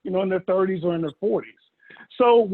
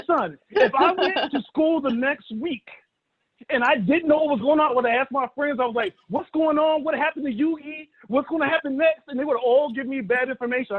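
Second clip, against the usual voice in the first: lecturing his son; 5 semitones higher than usual. Retold or imitated.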